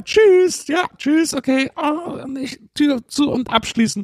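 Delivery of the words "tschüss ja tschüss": raised, higher-pitched goodbye called to a crowd; high customer-service goodbye; brisk send-off. Acted. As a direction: call out a hurried farewell. Clerk hurries customers out.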